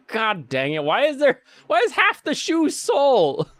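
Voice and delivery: climbing into a high, loud squawk; hammed-up frustrated outburst; mock exasperation. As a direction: play the outraged buyer, voice shooting up. Acted exasperated buyer.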